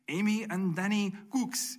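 "Amy and Danny Cooks" said high, with a foreign twist on Cooks; mangled name. Retold or imitated. Imitating Honduran officials mispronouncing "Cooks". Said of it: "say our name really funny".

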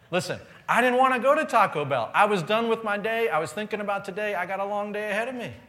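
loud, high comic complaint; exasperated venting. Retold or imitated. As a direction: rattle off the gripe, high and loud. Comic venting about unwanted late stop.

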